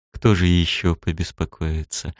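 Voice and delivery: purring. Acted. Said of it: "Промурлыкала Протасова".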